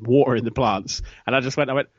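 usual speaking voice

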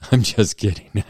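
laughing through it. Real, not acted. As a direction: laugh while saying it. Laughing after a joke.

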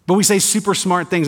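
dry sarcastic tone. Real, not acted. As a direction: say it with pointed sarcasm. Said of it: "note the sarcasm in my voice".

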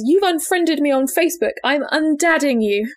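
hammed-up outrage; mock indignant dad. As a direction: declare it like an offended father. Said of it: "he stomped downstairs and says".

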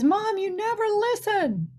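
put-on a hurt sixteen-year-old accusing her mom; imitated crying daughter. Daughter bawling in the car.

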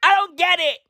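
high, exclaimed confusion; mock bafflement. After imitating the actress's accent, high-pitched bafflement.

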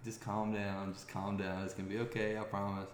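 soft, steady reassuring to panicked teammates; calm reassurance. Retold or imitated. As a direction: settle them down gently. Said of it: "I was just so calm".

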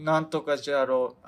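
tentative stab at Tosa dialect; half-remembered Tosa dialect, sounding like Hiroshima; attempted Tosa dialect. Shown as a demonstration. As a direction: try out a Tosa accent, unsure. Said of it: "土佐弁って、".

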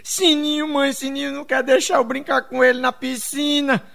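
voz aguda de criança fazendo queixa, choro encenado; menina chorosa. Acted. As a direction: reclame manhosa e aguda, imitando menina. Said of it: "chegou chorando pra mãe dela". (menininha chorona se queixando)

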